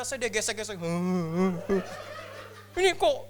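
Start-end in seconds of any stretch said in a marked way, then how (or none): 0.8-2.8 drawn-out imitated wail; mock crying. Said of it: "dia nangis". 2.8-3.2 high, loud incredulous question; mock startled protest. Startled retort to clinging hug.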